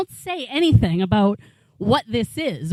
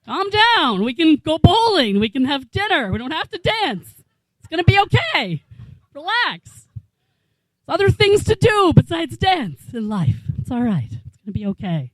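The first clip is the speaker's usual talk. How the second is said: mock soothing; 4 semitones higher than usual. Mock consoling the song's victim.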